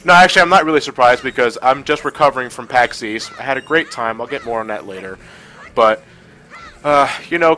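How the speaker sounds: blocked nose from a cold; stuffy nose. Real, not acted. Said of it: "I sound a bit stuffy".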